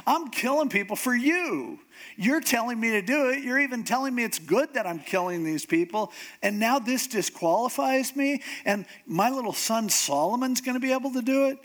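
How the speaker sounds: comic protest that climbs in pitch; mock indignation. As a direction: argue back as if badly wronged. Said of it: "would have really made me mad".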